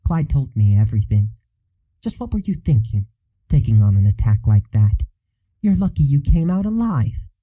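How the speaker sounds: angry scolding nurse; bewildered fury. Acted. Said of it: "bewildered fury".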